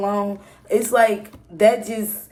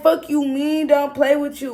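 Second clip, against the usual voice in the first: mock angry yell; 6 semitones higher, 4 dB louder than usual. Yelling at ex outside.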